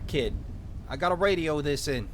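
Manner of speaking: put-on small-town cop with a light Minnesotan accent; lightly Minnesotan lawman taking charge; vaguely Minnesotan accent. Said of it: "give him a vaguely Minnesotan accent".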